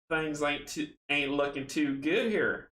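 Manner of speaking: put-on slow Southern country accent. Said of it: "I gotta do my country accent".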